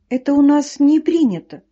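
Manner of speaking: plain reading voice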